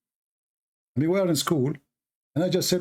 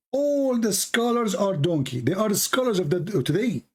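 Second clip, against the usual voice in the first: sarcastic mockery; 6 semitones higher than usual. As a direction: drag it out with contempt. Mocking a rival's claims.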